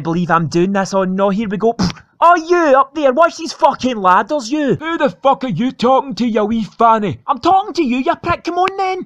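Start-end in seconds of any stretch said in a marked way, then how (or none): 2.2-9.0 mock shout up a ladder, higher; calling up. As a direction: yell up at the man on the ladder. Shouting up at a painter.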